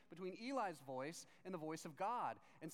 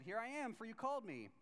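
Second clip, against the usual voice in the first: higher-pitched eager answer to a call; young Samuel answering; 5 semitones higher, faster than usual. Acted. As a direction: call out as the boy reporting in. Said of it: "he went to Eli and said".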